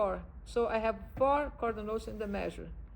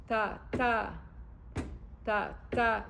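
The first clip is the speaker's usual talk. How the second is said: "ta, ta" in separated weak-strong pairs; weight each second "ta"; iambic stress. Shown as a demonstration. Teacher demonstrating what is called iambic, second syllable stressed. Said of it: "This is called iambic".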